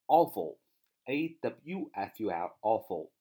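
spaced letters at a slow pace; slow spelling. Shown as a demonstration. Teacher reviewing the spelling of awful, slowly. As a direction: spell it out for the class. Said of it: "首先看".

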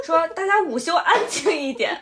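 lightly stern teacher; a hint of a strict teacher. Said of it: "老师说".

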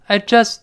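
"I just" stopping without a burst on the t; unreleased final t. Shown as a demonstration. Teacher demonstrates lost plosion, "just" with unreleased t. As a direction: hold back the t at the end of "just". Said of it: "最后那个t失去爆破了".

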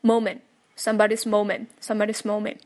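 moment as "momen" in somebody's moment; dropped final t. Shown as a demonstration. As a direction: hold back the t of moment. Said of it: "爆破它".

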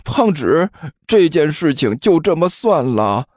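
mild teasing. Acted. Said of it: "用调侃的语气".

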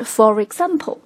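"for example" repeated as fo-rexample; linked with r. Shown as a demonstration. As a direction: run "for example" together through the r. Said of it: "连读之后应该是".

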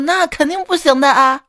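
a touch of a stern doctor; mildly firm, lightly voiced ruling; serious. A doctor gently but firmly warning the husband. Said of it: "语气特别严肃地说".

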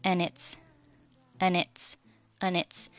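"and its" joined as "an-its"; linked reading. Shown as a demonstration. Teacher drilling the link, "and its" as one word. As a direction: drop the d and glide from "and" into "its". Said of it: "And和its可以连读成".

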